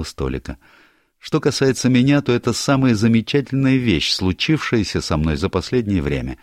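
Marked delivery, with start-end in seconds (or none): 1.2-6.4 higher, brighter-voiced girl, teasing; lively young woman. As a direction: play Barbara breezing into the room, higher and louder. Barbara voiced by narrator.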